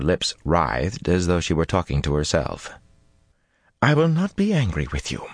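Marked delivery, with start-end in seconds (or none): 3.8-5.3 milder tone. A narrator's reading. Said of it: "in a much milder tone".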